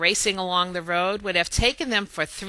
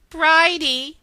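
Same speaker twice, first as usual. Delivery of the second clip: calling out; 8 semitones higher, 6 dB louder than usual. Acted. Ari calls the hen by name.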